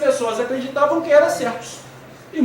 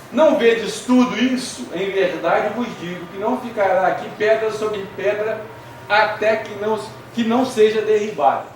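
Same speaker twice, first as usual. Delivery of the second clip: scripture reading. Acted. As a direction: read the verse out with weight. Reads Jesus's words from scripture.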